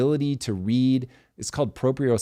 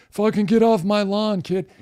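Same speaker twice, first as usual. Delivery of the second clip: put-on higher, louder cranky old geezer snapping at kids; grumpy old man; 11 semitones higher, 5 dB louder than usual. Host imitating an old man shooing kids off his lawn, cranky yell. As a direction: yell it like a crotchety neighbor off his porch. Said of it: "I sound like that guy that's like".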